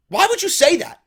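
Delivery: high, loud disbelief; exasperated outburst; incredulous. Real, not acted. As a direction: voice jumps up in disbelief. Outraged at wrestler's line.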